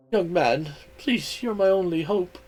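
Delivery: small, softening pleading voice; last desperate hope; tearful mouse plea. Acted.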